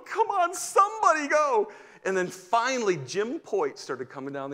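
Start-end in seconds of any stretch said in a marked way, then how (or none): 0.1-1.7 high, louder, urgent pleading; high anxious plea; desperate plea. Retold or imitated. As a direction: beg the room under your breath but pitched high. Pleading for someone to go.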